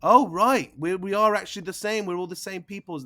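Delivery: a crowd realising they're all alike; relieved locals. Acted. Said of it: "They all seem to be like".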